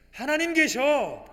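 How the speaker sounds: 계셔 stretched slow and loud; 하나님 계셔 said slowly and loudly, word by word; slow emphatic declaration. Acted. (천천히 힘주어 선포하듯)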